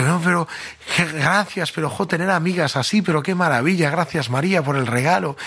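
high, gushing thanks for a motorbike; lightly played dazzled schoolboy; overjoyed boy.

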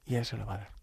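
tender, softening almost to a whisper; very sweet voice. Retold or imitated. Delivery man urging priest to ask, sweet and hushed. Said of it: "Con una voz muy dulce".

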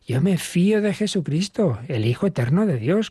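heartfelt trust. Shown as a demonstration. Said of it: "Así debemos decirlo".

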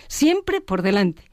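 "siempre por delante" said slowly, each word weighed; slow right down and stress "siempre"; slow emphatic repeat. Shown as a demonstration. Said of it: "La confianza tiene que estar siempre por delante".

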